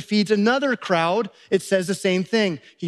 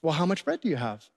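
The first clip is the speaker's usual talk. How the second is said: softer, lower, understated question; simple, unfussed; 4 semitones lower, 6 dB quieter, faster than usual. Acted. Jesus calmly answering his flustered disciples, simply. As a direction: ask it gently, without any fuss. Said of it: "Jesus says to them simply".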